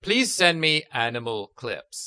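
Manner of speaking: slow, word-by-word fake quote; spliced-together voice words. Cohost mocking up a fake podcast, slow spliced delivery. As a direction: pretend to be stitched from old recordings. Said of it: "take all of your voice words".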